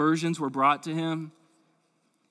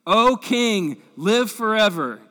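formal royal greeting; 8 semitones higher, 10 dB louder, slower than usual. Acted. Daniel greets the king from den.

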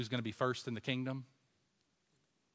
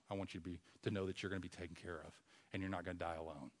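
softer, intimate dying request; tender quiet plea; 6 semitones lower, 7 dB quieter than usual. Acted. Jesus to John about his mother, soft plea. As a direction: speak it gently like a last wish.

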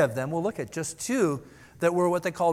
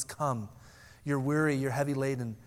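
gentle invitation; 2 semitones lower, 6 dB quieter than usual. Pretend. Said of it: "gentle and, and lowly".

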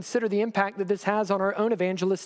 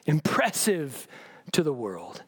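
slow, drawn-out mock praise; sarcastic; 3 semitones lower, much slower than usual. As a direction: stretch it out as fake flattery. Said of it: "read sarcasm".

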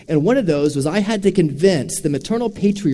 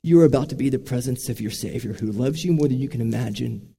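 softened, unhurried words of comfort; tender reassurance; 3 semitones lower than usual. Retold or imitated. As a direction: gently assure a dying loved one. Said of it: "I looked at him and I said".

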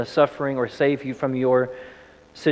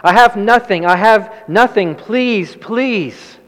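high, loud pleas that fade on the last please; desperate begging; 7 semitones higher, 5 dB louder, slower than usual. Retold or imitated. Trapped burglar showing empty hands, high desperate begging. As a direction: insist you have nothing, begging. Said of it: "he began to say".

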